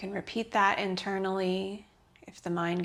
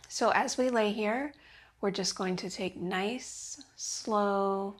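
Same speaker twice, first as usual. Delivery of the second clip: restorative yoga guidance. Real, not acted. Yoga teacher easing students into the pose, calm guidance. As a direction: guide them into rest, unhurried.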